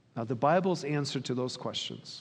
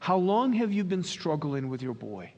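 gently concerned question, slightly raised pitch; compassionate; 3 semitones higher than usual. Acted. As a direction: ask with a touch of compassion. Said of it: "notice the compassion in his voice".

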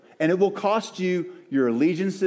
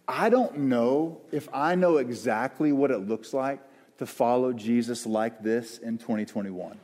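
humble, insecure; 3 semitones lower than usual. Real, not acted. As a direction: admit it humbly, unsure how to say it. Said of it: "in a humble, insecure, like, not really sure".

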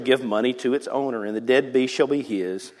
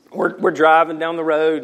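ordinary delivery

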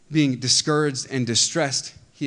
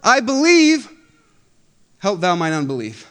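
a slow, high, loud anguished plea, then sinking back down; crying out with tears; 5 semitones higher, 10 dB louder than usual. Acted. The child's father begging Jesus, tearful cry. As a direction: cry out to God through tears. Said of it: "cried out and said with tears".

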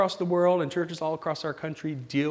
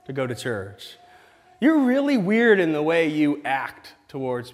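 mildly voiced skeptic; 3 dB louder than usual. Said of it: "and go".

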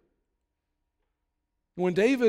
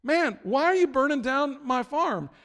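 high, loud "Dude!" blasting out; mock outraged yell, then settling; outraged shout; 8 semitones higher, 7 dB louder, slower than usual. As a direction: yell it like your farm just burned. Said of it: "Joab shows up and he's like".

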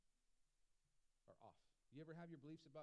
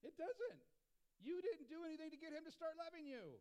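high, loud insistence on grace; preacher pressing the point to the church, emphatic; emphatic preaching; 9 semitones higher, 5 dB louder than usual. Real, not acted. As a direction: push it hard to the congregation. Preacher driving the point home.

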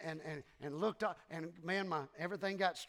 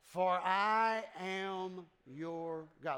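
slow drawn-out reading; much slower than usual. Shown as a demonstration. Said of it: "Let's do it a little bit quicker".

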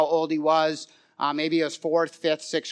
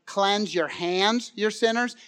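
slow, weighted reading of scripture; solemn scripture plea; passionate plea; 5 dB quieter, slower than usual. Retold or imitated. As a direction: plead each phrase slowly. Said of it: "he cries out with such passion".

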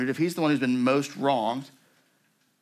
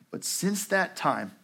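slow, higher lightly voiced guard; former camp guard; 7 semitones higher, much slower than usual. A narrator's reading. Guard explaining himself to survivor, slow lightly voiced guard. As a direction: draw it out as the guard continuing. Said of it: "he went on".

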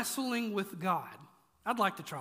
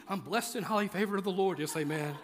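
pious churchy reply; 3 semitones lower than usual. Pretend. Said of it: "And you go".

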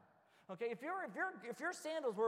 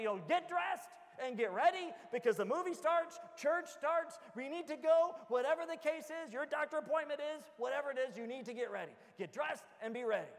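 put-on loud, raised voice calling the kids; parent ordering kids; 5 semitones higher, 5 dB louder than usual. Dad telling his kids to get ready for church, loud and firm. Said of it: "I'll say".

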